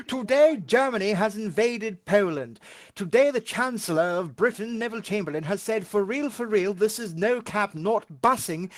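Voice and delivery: put-on loud, high old BBC news announcer; forties BBC newsreader. Parodying a wartime BBC bulletin for friends, a loud high newsreader voice. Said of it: "This is B B C News at nine o'clock".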